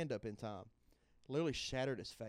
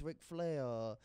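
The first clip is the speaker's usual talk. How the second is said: Dusty Rhodes voice. Retold or imitated. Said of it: "You ever heard my Dusty Rhodes?".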